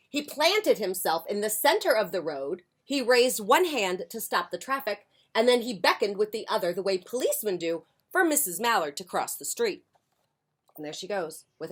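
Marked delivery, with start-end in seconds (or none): 0.1-9.9 lively picture-book reading; expressive storytime voice; story narration. A narrator's reading. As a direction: read it aloud to young children. Reads picture book to children.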